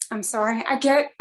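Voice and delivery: teary. Real, not acted. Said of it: "I can't talk if I get teary".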